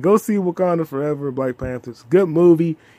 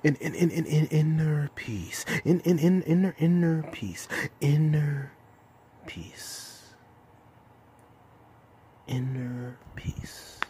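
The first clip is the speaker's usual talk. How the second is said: calm master voice; 5 dB quieter, slower than usual. Retold or imitated. Kung Fu Panda impression.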